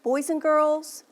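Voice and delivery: a light touch of a kindergarten teacher voice; teacher to kids. Shown as a demonstration. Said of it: "if I were to say".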